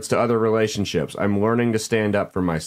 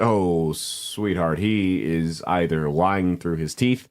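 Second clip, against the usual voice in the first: condescending; 6 semitones lower, 3 dB quieter, slower than usual. Acted. Condescending address to letter writer.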